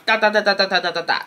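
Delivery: rapid "da da da" knocking noise; imitated knocking. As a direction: imitate quick raps on a door. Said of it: "So she knocks".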